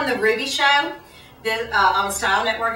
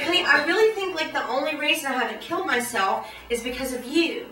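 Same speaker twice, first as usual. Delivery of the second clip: mock tender confession; 5 dB quieter than usual. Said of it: "I was like".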